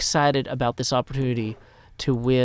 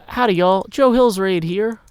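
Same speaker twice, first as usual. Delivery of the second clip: cowboy greeting; 5 semitones higher, 6 dB louder than usual. Shown as a demonstration. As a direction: announce the raid like a cheerful cowboy. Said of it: "you say".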